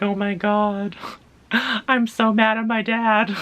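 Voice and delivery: high, loud, slowed-down mock rant at dad; mock angry outburst. A friend suddenly venting about dad, mock angry and high. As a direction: play a hammed-up fit of anger at dad. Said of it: "because of my impression".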